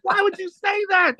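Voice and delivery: high, pained mock shout at a friend; embarrassed outcry. Retold embarrassment at Fred, high pained cry. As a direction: yelp it out, mortified. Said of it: "I was so embarrassed".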